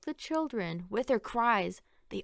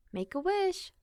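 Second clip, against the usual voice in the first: eager cry; 8 semitones higher than usual. A narrator's reading. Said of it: "the children cried".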